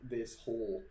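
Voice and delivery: slow, deliberate ghost-story narration; drawn-out narration with suspenseful pauses; game master's scene setting. Acted. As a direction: describe the apparition piece by piece, unhurried.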